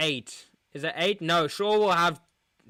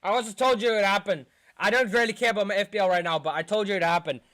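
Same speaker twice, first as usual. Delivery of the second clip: fast frustrated rant; 5 semitones higher, 5 dB louder, much faster than usual. Real, not acted. Fan ranting after loss.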